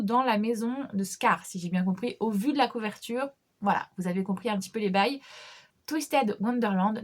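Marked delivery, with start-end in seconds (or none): 5.9-7.0 Twisted Wonderland said slowly in English with a thick French accent. Real, not acted. Book vlogger naming the manga title, thick French accent. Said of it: "désolé de mon accent à couper au couteau".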